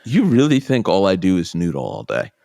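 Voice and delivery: mildly indignant, stressed comeback; incredulous retort. Retold or imitated. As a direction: push back in disbelief, retelling it. Retorting to a friend's naive remark.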